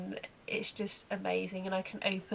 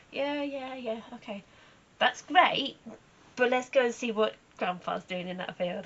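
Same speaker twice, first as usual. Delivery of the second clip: playful mare voice; 4 semitones higher, 4 dB louder than usual. Pretend. Horse voiced in story.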